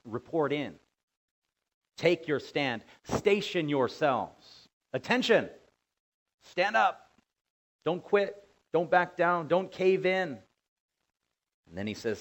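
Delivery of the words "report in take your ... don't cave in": barked commands, higher and louder; military command. Acted. Preacher voicing God commanding the people to stand, loud drill orders. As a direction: call them to attention like a drill sergeant. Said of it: "It says".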